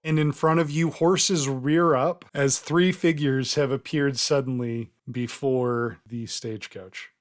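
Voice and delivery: measured dramatic scene setting; game master narration. Acted. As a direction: build the reveal, slowing at the end.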